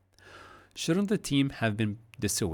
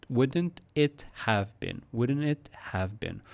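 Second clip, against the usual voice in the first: slow, deliberate chunk of the question; slow segment; 3 semitones higher, slower than usual. Shown as a demonstration. Teacher breaks the question into chunks, slowly. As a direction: drill it slowly piece by piece. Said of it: "Notice how I take it in segments".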